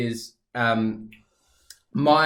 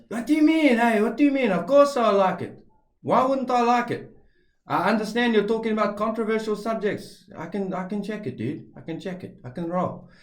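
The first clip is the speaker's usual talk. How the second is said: high, excited stepdad voice; stepdad impression; 8 semitones higher than usual. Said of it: "And that's what he sounds like".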